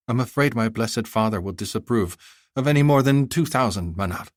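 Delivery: put-on a clever girl haggling sweetly; young girl voice. Girl bargaining.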